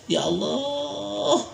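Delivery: imitated weeping plea, opening long and soft; retold tearful prayer. Preacher retells Siddiq crying over his blessings, softly tearful. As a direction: act lightly overcome, stretching out "Allah". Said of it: "sering nangis ya".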